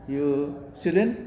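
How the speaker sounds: You student? slow, "student" rising; slow rising question. Shown as a demonstration. Teacher demonstrates tune-only questions, slow rise. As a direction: draw the question up slowly. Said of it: "Cuma nadanya aja diubah".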